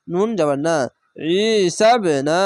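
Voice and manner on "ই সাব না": long "ই", then a rebounding b in "সাব"; elongation and qalqala. Shown as a demonstration. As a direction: stretch "ই", bounce the b of "সাব". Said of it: "এক আলিফ টেনে পড়বেন, এখানে কলকলা হবে".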